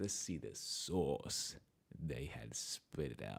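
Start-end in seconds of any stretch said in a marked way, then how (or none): 0.0-1.6 radio dj voice, lower and quieter. Checking what the AI came up with, in a DJ voice. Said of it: "In my D J voice".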